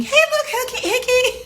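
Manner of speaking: high put-on voice calling out; imagine an agent hailing you; imagined caller. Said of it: "So I'm thinking".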